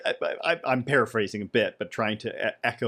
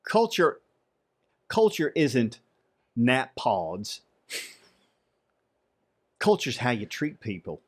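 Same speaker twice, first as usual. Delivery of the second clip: shaky attempt at a Texas accent, with long pauses; Texas drawl; slower than usual. Shown as a demonstration. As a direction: attempt a witty Texan's twang, phrase by phrase. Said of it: "Texas drawl".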